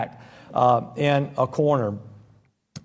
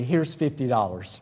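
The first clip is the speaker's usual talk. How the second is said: laughing aside; 4 semitones lower, 6 dB quieter than usual. Acted. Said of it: "the safest comment of all".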